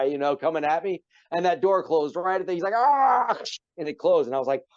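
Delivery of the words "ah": mock Klingon roar. Drunk Klingon lunging at the door.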